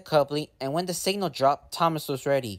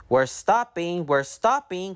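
calling out; 3 semitones higher than usual. Acted. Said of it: "called Thomas".

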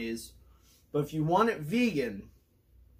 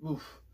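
burp; 9 dB quieter than usual. Real, not acted. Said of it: "Onion rings coming back up".

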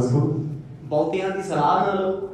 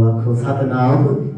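calling out; 5 semitones lower, 6 dB louder, much slower than usual. Real, not acted. Preacher calls congregation to respond.

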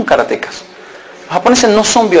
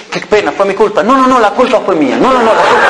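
insistent apology. Acted. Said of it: "Traducción".

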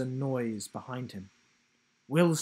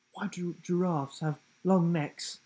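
playful higher giraffe voice; a lightly voiced cheeky giraffe; 5 semitones higher, 3 dB louder than usual. A narrator's reading.

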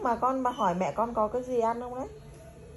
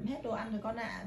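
softer, tender "no food left"; gentle; 5 dB quieter than usual. Shown as a demonstration. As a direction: show how a kind mum would say it. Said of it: "chỉ cần nói nhẹ nhàng thôi là".

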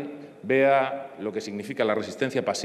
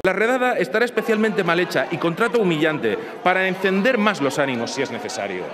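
loud, raised declamation of a quote; emphatic quote reading; 4 semitones higher, 3 dB louder than usual. Retold or imitated. MP reading a commissioner's words to parliament, emphatic declaiming. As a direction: read it out forcefully, stressing each damning phrase.

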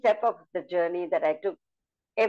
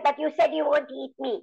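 high pleading mouse voice; a tiny mouse pleading in a high voice; little mouse; 8 semitones higher than usual. Shown as a demonstration. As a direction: squeak it out, begging the lion. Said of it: "So I changed the voice like this".

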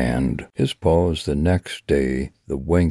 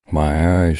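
mock scream; 4 dB louder than usual. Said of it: "she screams".

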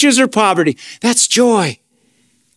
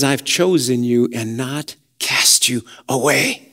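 slow, much softer and lower; tender voice of God; 8 semitones lower, 5 dB quieter than usual. Acted. Preacher voicing God to fearful believers, slow and soft. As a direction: let God speak it gently, almost a hush. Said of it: "But he says".

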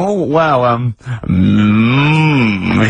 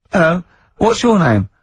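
little Chinese neighbour; 5 semitones higher than usual. Pretend. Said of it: "It's my little Chinese neighbour".

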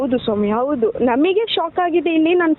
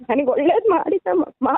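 real crying. Real, not acted. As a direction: voice breaking into tears. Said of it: "ಇಲ್ಲಿ ಅಳ್ಬೇಡ". (ಅಳುತ್ತಾ ಗದ್ಗದಿತ ಧ್ವನಿಯಲ್ಲಿ)

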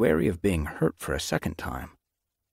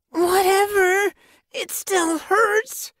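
high, loud, slow sulky snap; snapping; 6 dB louder, much slower than usual. A narrator's reading. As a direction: snap back in pain. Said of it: "Yellow Paw snapped".

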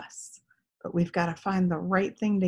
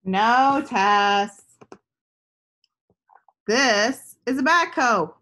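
lightly voiced boy, higher and louder; a hint of a kind friend correcting her; patient boy answering; 3 semitones higher, 5 dB louder, slower than usual. Gus answers Tess in story.

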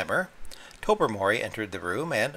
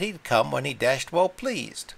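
drawled; 5 semitones higher than usual. Retold or imitated. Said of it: "drawled out in a most horribly natural voice".

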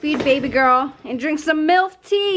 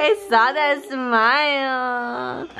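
drawn-out, singsong teasing; slower than usual. Real, not acted. Mother teasing her shy baby about a smile, playful slow coo.

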